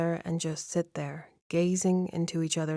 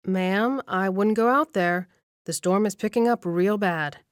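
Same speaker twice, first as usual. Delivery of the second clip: a mild, slightly louder calling-out desk clerk; shouting after her; 2 semitones higher, 4 dB louder than usual. Acted. Desk clerk calls after the departing guest, mild raised shout. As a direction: call a warning across the lobby, raised but restrained. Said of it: "the man on the front desk shouts after her".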